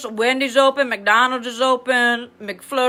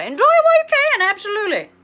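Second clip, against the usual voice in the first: excited advice; 9 semitones higher, faster than usual. Retold or imitated. Advising students enthusiastically.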